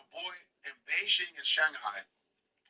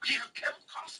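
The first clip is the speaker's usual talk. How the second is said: mimicked movie seller; 6 semitones higher, faster than usual. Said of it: "He goes".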